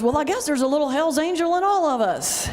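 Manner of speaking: said through laughter; laughing remark. Retold or imitated. Clerk laughing as she gives in to the minister, words through laughter. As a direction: let the laugh break into the words. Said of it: "she starts laughing and goes".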